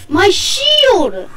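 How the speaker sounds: high wail of alarm, drawn out and falling; stretched, distressed gamer yelp; dismayed cry. Real, not acted. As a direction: cry out over a sudden loss. Loses shield in game.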